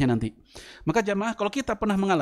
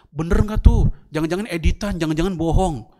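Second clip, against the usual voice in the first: doubting supporter; 5 dB louder than usual. Retold or imitated. Voicing a suspicious supporter.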